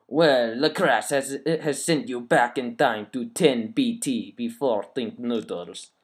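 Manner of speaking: put-on evil French accent. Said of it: "I'm gonna read it in a French accent".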